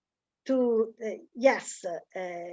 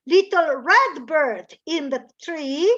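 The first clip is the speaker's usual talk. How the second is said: slow sing-song quote; 4 dB louder than usual. Shown as a demonstration. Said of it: "io l'ho cambiato un po'".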